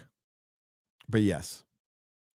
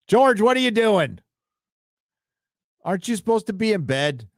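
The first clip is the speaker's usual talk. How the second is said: surprised call; 8 semitones higher than usual. Real, not acted. Calling viewer up late.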